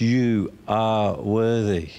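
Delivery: slow, reverent praise to Jesus. Real, not acted. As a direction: draw out each word in worship. Addressing Jesus in worship.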